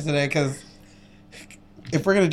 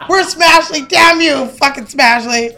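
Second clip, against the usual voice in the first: battle cry; 5 semitones higher, slower than usual. Retold or imitated. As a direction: yell it like a pro wrestler. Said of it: "I was like".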